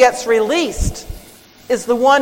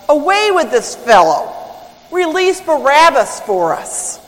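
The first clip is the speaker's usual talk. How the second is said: raised, emphatic imitation of an angry crowd's demand; retold shout; 4 semitones higher than usual. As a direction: call it out as a mock crowd shout, not full volume. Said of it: "the elders of the people shout".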